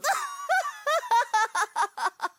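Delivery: gloating laugh. Acted.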